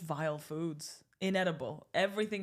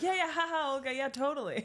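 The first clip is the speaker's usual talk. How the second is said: mocking quote; 8 semitones higher than usual. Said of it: "You're like".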